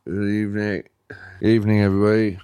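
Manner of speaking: soft, rambling tipsy Brit leaving a voice note; drunk British man. Pretend. Drunk British man leaving a voice note for the chat, tipsy and soft. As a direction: play a mildly drunk Englishman, hushed and hesitant. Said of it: "drunk British man on the voice note".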